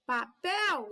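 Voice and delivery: PAPEL called out with stress on the last syllable, PEL; calling the word. Shown as a demonstration. Teacher calls the word to find its strong syllable, stressing PEL in Papel. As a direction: call "Papel", leaning on the final PEL. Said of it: "basta eu chamar a palavra".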